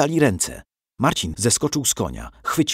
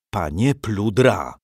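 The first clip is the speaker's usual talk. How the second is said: slow, every word weighed; father calling the outlaw to judgement; emphatic; slower than usual. A narrator's reading. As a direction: address the outlaw firmly and slowly. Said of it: "rzekł dobitnie".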